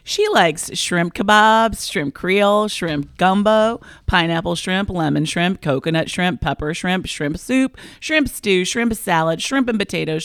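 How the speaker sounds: put-on slow, drawled Southern accent listing shrimp; Bubba shrimp list. Co-host introducing herself in a lightly put-on Southern accent. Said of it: "I have this Southern accent that came out of nowhere".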